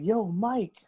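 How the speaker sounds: a retold "hey you" call; imitated greeting call. Boyfriend calling out on arrival.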